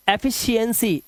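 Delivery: एफिशिएंसी with an audible i-a glide; ia sound shown. Shown as a demonstration. Teacher showing which vowel sounds, ia glide in एफिशिएंसी. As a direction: let the ia be heard in एफिशिएंसी. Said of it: "आवाज क्या आ रही है".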